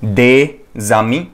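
दे जामी said slowly with a z linking into जामी; slow model liaison, des amis. Shown as a demonstration. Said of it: "इसको हम pronounce करते हैं दे". (धीमा, जोड़कर बोला दे जामी)

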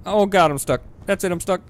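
loud exasperated groan of being stuck; frustrated stuck. Real, not acted. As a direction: complain loudly that you can't move. Player stuck in game.

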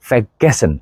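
ഫെഗസൻ with no r after fe; correct prefix. Shown as a demonstration. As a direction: say ഫെഗസൻ with the r dropped. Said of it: "അത് ഫെർഗസൻ അല്ല".

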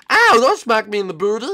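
high, loud indignant yelp; loud pained protest. Acted. Boy protests being smacked.

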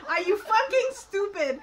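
exasperated laughing repeat; laughing outburst. Real, not acted. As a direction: lean into fucking and break up laughing. Repeat, louder and slower.

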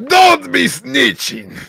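high, loud, drawn-out mock shout; mock shouting character. Reading a chat log argument aloud, high mock shout. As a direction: shout it slowly in a high put-on voice.

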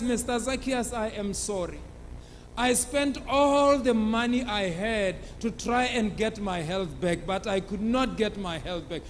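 a sick woman begging in a soft, frail voice; weak pleading. Acted. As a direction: plead softly from the sickbed. Sick bedridden woman begs for mercy.

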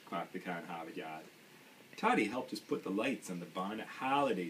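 put-on storybook read in a light Maine accent, dropped r's. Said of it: "do my best Maine accent".

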